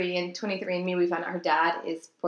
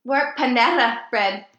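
mock confused; 4 semitones higher, 8 dB louder, slower than usual. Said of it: "And I'm like".

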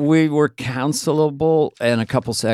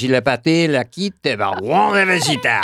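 fake French; 3 semitones lower than usual. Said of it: "That's fake French".

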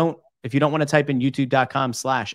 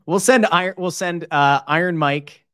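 excited; 4 semitones higher, 6 dB louder than usual. Real, not acted. Excited joking bit.

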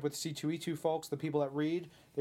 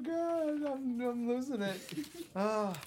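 ordinary delivery

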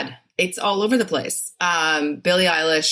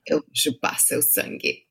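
smiling vampire line. Shown as a demonstration. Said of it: "say it without a smile now".

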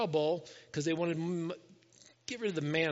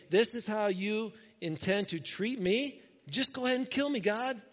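higher-pitched exasperated plea, mildly acted; frustrated, tired; 4 semitones higher than usual. Moses complaining to God about his load, frustrated plea. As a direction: plead as if fed up. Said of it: "He's frustrated. He's tired".

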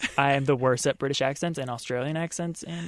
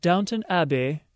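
hammed-up British accent, a little higher; mock-British announcement; put-on British accent; 4 semitones higher, 3 dB louder than usual. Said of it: "you gotta put the accent on".

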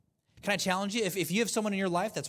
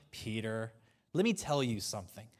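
talking down; 8 semitones lower, 4 dB quieter than usual. Acted. Jesus talking down to Peter at the last supper, low and quiet. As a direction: lower and softer, firmly condescending. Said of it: "see him talk down to him".

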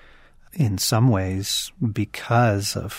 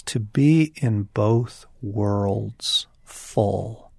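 poem recitation; slower than usual. Shown as a demonstration. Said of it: "he has this wonderful line where he says".

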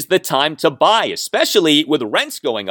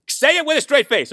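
much higher, laughing through the words; 14 semitones higher than usual. Real, not acted. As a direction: giggle while you say it. Host laughing at owner's quote.

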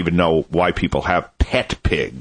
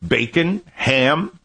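quoting himself; 8 semitones higher, slower than usual. Retold or imitated. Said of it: "I'm like".

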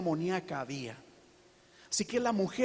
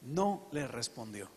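much lower, softer and slow, almost breathed; dramatic hush; 7 semitones lower, 7 dB quieter, slower than usual. Real, not acted. Preacher to church about Jesus ignoring the woman, a dropped hush. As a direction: let the silence land, sink the voice right down.

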